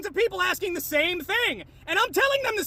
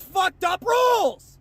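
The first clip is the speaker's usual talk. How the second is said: angry shout; 4 dB louder, slower than usual. Real, not acted. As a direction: end the rant on a furious shout. Climax of angry rant.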